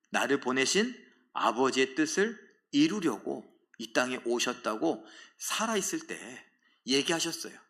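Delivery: ordinary talk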